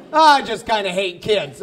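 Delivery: low, offhand mock confession; casual. Someone confessing beside a parent, mock casual. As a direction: toss it off as if it were nothing. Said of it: "people say that so casually".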